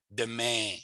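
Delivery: demain with the vowel between ah and A; demain, soft French vowel. Shown as a demonstration. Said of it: "It's in the middle".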